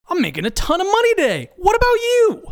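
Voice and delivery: high, fast, thrilled voice; excited. Acted. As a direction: burst in bragging with glee. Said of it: "an excited Steve enters".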